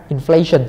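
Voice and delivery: "inflation" with the weight on its second syllable; second-syllable stress. Shown as a demonstration. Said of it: "là nhóm âm hai nha". (nhấn âm hai của "inflation")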